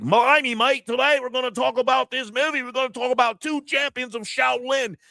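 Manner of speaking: high, mocking British presenter voice, way up in pitch; exaggerated British accent lampooning foreign movie channels. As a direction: parody a British film reviewer in a high put-on British accent. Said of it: "Is the people with accents like".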